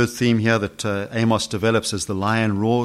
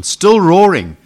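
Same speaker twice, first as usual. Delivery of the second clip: a big loud burst on roaring, pitched up; 6 semitones higher, 10 dB louder, slower than usual. Real, not acted. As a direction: let roaring itself roar. Word roaring said with force.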